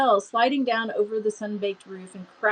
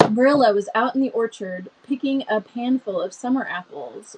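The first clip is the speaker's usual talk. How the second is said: calmer, slower reading; slowed down. Shown as a demonstration. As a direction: reader deliberately reins herself in. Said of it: "Let me slow down".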